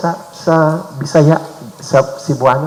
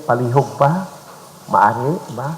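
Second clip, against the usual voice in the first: "palihog ba? Maari ba?" said softly and a little quicker; gentle request; 4 semitones lower, 4 dB quieter than usual. Shown as a demonstration. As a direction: ask kindly, a real please. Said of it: "be conscious and aware also of the tone of our voice".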